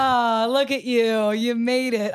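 slow, drawn-out friendly welcome; cheerful greeting. Retold or imitated. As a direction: stretch the welcome out warmly.

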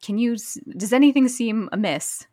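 mock casual question. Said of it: "was like".

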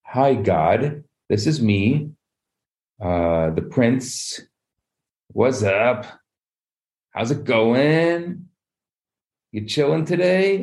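tentative small talk, rising at the end; hesitant, badly casual hello, questions drawn upward; awkward greeting. Prince not knowing how to address God, awkwardly casual.

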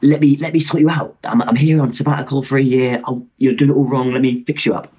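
lightly imitated Australian doctor; attempted Australian accent. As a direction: have a modest go at an Australian accent. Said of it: "trying to do the accent".

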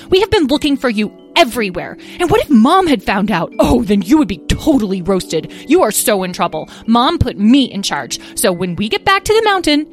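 high loud bossy telling-off; in-charge big sister berating the runaway; scolding. Acted. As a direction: lay into him like mom would.

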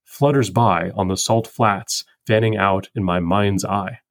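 slow recited line; poem quote. Acted. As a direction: read it like the poem.

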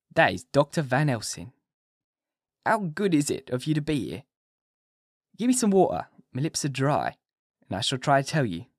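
a dazed, feeble madman pleading; weak patient Renfield. A narrator's reading. Renfield speaks to doctors.

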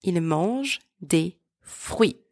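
slow model French, "mangent" as "monzh"; silent ENT. Shown as a demonstration. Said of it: "you do not pronounce them".

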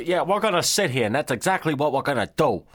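high, quick mock Maine accent. Islanders told to sit and wait, high hammed-up Maine accent. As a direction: argue it back and forth in a put-on Maine accent. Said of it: "the Maine accent is hilarious".

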